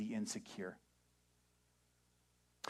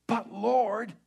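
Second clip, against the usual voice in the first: higher, louder whine; whiny protest; 10 semitones higher, 10 dB louder than usual. Retold or imitated. Believer objecting to God's call, whining. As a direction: object like a reluctant kid. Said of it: "you're gonna say".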